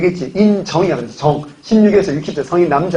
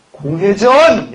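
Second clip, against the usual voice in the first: very slow, stretched-out word, pitched high; long swooping shout-out; drawn-out call; 4 semitones higher, much slower than usual. Real, not acted. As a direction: call the answer out to a class, dragging it. Teacher calls out answer to class.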